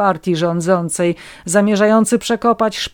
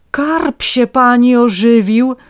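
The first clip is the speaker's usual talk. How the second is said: high, loud, slow rapture; awed crank; 6 semitones higher, 7 dB louder, slower than usual. A narrator's reading. Crank passer-by tells woman her carp revived, loud rapture. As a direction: announce it like a miracle. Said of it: "dodał nawiedzony przechodzeń".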